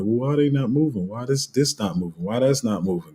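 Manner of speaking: mock bewildered questions, lightly done; confused questioning. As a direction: imitate confused followers asking why. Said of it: "y'all been confused and like".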